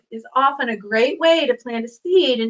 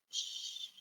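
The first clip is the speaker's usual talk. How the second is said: soft unvoiced shh; shushing; 23 dB quieter than usual. Shown as a demonstration. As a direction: hush the room. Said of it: "here's how the song goes".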